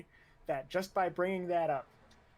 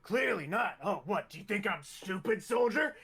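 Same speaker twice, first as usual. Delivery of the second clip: raised, affronted challenge; indignant instructor; 3 semitones higher, 3 dB louder than usual. Acted. Instructor berates a stammering recruit, indignant. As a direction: build to a sharp loud finish on the last word.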